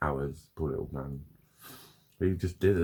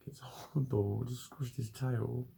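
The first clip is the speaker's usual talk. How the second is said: ordinary delivery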